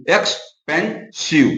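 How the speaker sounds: एक्सपेंसिव said slowly, syllables apart; teacher modelling एक्सपेंसिव syllables. Shown as a demonstration. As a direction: drag out एक्सपेंसिव one syllable at a time. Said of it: "ये जो multi syllable है".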